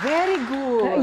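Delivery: lightly voiced teacher, slow and high; mock teacher praise. Host imitating the teacher's praise, mild mock teacher voice. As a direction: praise like a pleased teacher, drawn out. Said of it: "Sabi ng teacher".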